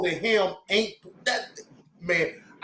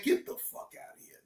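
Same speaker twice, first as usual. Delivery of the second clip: much higher, fast, breathy scoff; scoffing dismissal; 12 semitones higher, 11 dB quieter, faster than usual. Real, not acted. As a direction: wave it off in disbelief. Scoffing at the ice routine.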